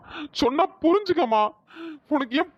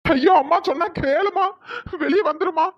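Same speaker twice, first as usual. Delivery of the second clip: crying plea; 3 semitones higher than usual. Acted. Son begging mother, crying.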